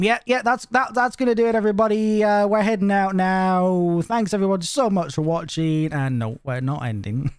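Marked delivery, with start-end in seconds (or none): 0.0-5.9 mock sign-off. Pretend stream sign-off, joke.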